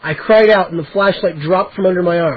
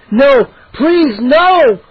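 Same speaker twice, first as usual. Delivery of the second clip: high, loud terrified pleading; desperate plea; 6 semitones higher, 5 dB louder, much slower than usual. A narrator's reading. Boy pleading as he falls toward scorpions. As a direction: beg as you fall.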